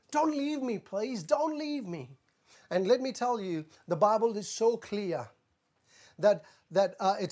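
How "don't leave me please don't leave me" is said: soft, broken plea to God, dropping almost to nothing; hushed, desperate prayer, don't leave me; pleading cry. Acted. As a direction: beg quietly, as if afraid of being left alone. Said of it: "He's crying out saying".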